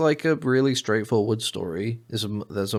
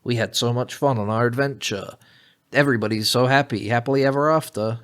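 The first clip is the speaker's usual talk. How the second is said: lightly mocked happy-ending chorus; epilogue voices; 3 semitones higher than usual. Mimicking heroes at the movie's end, lightly mock cheerful. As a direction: recite it like a cheesy film epilogue. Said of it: "they're all like".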